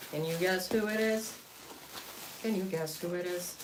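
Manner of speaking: playful sing-song guess. Shown as a demonstration. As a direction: tease the audience with a lifted tone. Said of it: "repeated higher, teasing".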